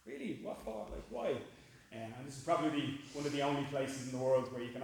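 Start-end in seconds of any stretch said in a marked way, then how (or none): 0.1-1.3 incredulous. Retold or imitated. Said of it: "and they go".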